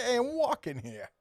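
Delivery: high, hammed-up Boston accent with a stretched walking; mock Boston guy yelling at traffic. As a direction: imitate a Boston buddy's wicked accent. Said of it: "He's got a wicked accent".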